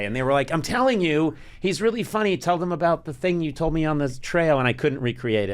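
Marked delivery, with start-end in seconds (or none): 0.5-4.6 insistent counselor. Retold or imitated. Counselor vouching to skeptical campers.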